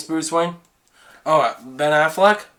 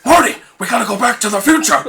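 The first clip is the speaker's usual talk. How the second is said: Doc Brown impression; 5 semitones higher, much faster than usual. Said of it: "Doc Brown?".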